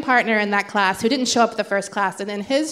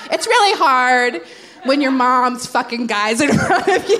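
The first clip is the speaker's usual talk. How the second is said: stand-up joke delivery; 5 dB louder than usual. Retold or imitated. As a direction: sell it like an open-mic comic. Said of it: "insert my sad childhood jokes".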